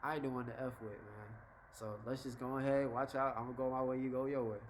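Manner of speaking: low-key, lightly amused warning; smiling warning. Acted. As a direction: warn them off calmly with a slight smile. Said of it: "you can say with a smile".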